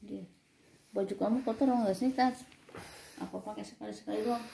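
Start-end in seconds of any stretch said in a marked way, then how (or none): 0.9-2.5 louder, higher call. Real, not acted. Mother calling to Tasya about dirty clothes, louder raised call.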